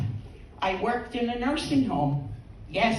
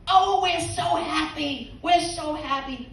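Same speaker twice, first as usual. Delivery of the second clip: delighted nurse; 6 semitones higher than usual. Acted. Nurse answers the complaint about Frank, gushing with delight.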